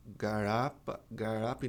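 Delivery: "garapa" with a retroflex, American-like R; regional R. Retold or imitated. Teacher imitating how people in the region speak, regional R. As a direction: imitate the local drawn R in "garapa". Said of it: "muita gente fala air".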